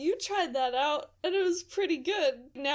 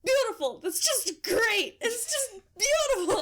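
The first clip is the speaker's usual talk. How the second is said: sleep talking; 5 semitones higher than usual. Retold or imitated. Imitating the roommate sleep-talking, dreamy.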